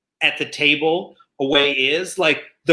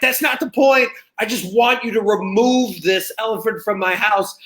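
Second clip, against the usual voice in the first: mock raised voice; 5 semitones higher than usual. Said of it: "my voice is being raised".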